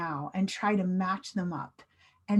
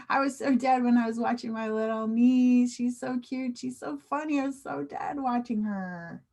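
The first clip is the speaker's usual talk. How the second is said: fond amusement; 3 semitones higher than usual. Shown as a demonstration. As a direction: gush gently, as if still tickled. Gushes over funny little niece example.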